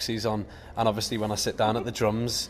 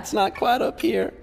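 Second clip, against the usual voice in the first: higher, mock American twang; Southern American accent; 11 semitones higher, 5 dB louder than usual. Still doing the American accent for the interviewer. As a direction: keep the Southern American voice going. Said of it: "your best American accent".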